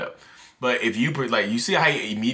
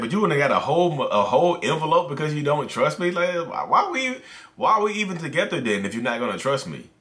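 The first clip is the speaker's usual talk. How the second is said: wounded, indignant act, a bit raised; acted gaslighting boyfriend. Boyfriend guilt-tripping his girlfriend over her evidence, offended act. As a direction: turn the blame back on her, play the hurt one. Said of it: "okay, y'all, and scene".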